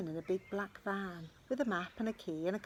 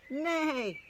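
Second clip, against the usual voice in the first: high loud whinnying neigh; mock horse call; 7 semitones higher, 7 dB louder than usual. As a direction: neigh with all her might. Animal calls out in the dark.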